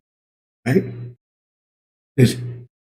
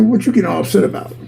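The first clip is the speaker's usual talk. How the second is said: God replying; 4 semitones higher than usual. Acted. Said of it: "And God said".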